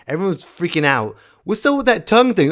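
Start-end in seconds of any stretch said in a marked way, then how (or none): 1.4-2.5 high, fast scandalized question; hammed-up outrage; mocking shocked viewer.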